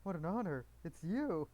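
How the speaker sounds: delighted, lightly acted fangirl welcome; excited greeting. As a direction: greet them like a starstruck fan. Acted gushing greeting to the mother.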